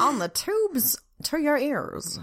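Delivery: put-on slow old-timey radio voice, laughing; vintage broadcaster, half laughing; old radio announcer. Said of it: "Old-timey radio voice".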